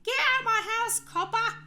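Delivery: high, hammed-up British accent; mock British. Re-enacting the celebrity's shout, high mock British accent. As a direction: squeal it like a cartoon Brit in a British accent. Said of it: "Victorian era Jack the Ripper".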